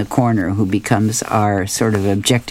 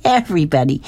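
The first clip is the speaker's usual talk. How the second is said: hysterical start; 5 semitones higher, faster than usual. Acted. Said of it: "He starts laughing hysterically".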